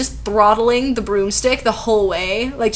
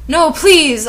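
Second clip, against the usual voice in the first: higher-pitched, acted plea; begging; 7 semitones higher, 5 dB louder than usual. A narrator's reading. Narrator pleading with Voldemort, begging. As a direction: plead with a touch of desperation. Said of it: "I begged".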